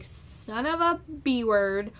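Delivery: slow, drawn-out mock cursing; retold cussing. Patient retelling the needle going into the cervix, cussing. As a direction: re-enact swearing in pain, drawn out. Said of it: "like, I was cussing".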